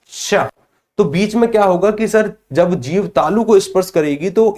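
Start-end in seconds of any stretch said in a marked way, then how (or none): 0.1-0.3 a lone श hissed with the tongue raised to the palate; sounding श. Shown as a demonstration. Teacher asks class to try it, hissing श. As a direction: breathe out श so the class hears the friction. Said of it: "जरा बोल कर देखिए".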